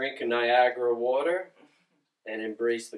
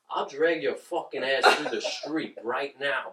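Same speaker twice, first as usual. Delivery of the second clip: slow, level New York intimidation; calm threat; 3 dB quieter, slower than usual. Retold or imitated. Quoting Goodfellas to a line-cutter, calm slow threat. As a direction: threaten slowly without raising the voice. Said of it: "saying calmly".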